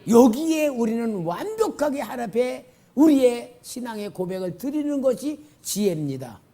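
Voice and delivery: loud, rising proclamations line by line; climactic preaching. Acted. Pastor leading a confession of faith, proclaiming loudly.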